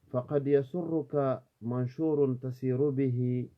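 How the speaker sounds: measured Arabic verse recitation; declaimed Arabic poetry; poem recitation. Acted. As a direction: recite the verses aloud, each line opening strongly and settling at its end.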